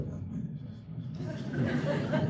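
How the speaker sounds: breathy half-whispered throwaway; mumbled quiet. Retold or imitated. Actor mocking film-acting mumbles in front of a camera. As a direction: mumble it like you're hiding from the mic. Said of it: "you can be like".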